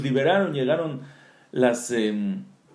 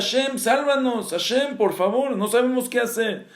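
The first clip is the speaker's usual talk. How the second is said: higher-pitched plea, not truly shouted; mock pleading cry for help; mild retold cry; 4 semitones higher than usual. The people of Israel cry out to Hashem, mild pleading cry. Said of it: "empieza a gritar el pueblo de Israel".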